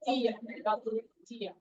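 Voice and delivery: "Dir" repeated and weighted; stress on dir. Shown as a demonstration. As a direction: lean on "dir" so it stands out. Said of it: "there is a word dir".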